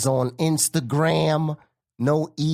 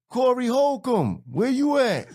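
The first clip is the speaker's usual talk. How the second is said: calling out; 10 semitones higher than usual. Retold or imitated. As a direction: imitate a bouncer calling for someone in a crowd. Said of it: "he's looking around like".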